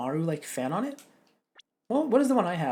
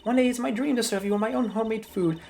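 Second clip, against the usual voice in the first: put-on cranky old lady; 3 semitones higher than usual. Old lady halting young prosecutors, cranky old woman. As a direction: bark it like a grumpy granny.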